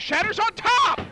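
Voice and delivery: surprised. Real, not acted. Shocking finish.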